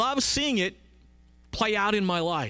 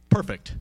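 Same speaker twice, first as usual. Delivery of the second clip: "perfect" set apart, low and firm; "perfect" as a weighty word on its own; emphatic perfect; 6 semitones lower, 4 dB louder than usual. Shown as a demonstration. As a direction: land firmly on "perfect". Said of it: "I wanna emphasize that word".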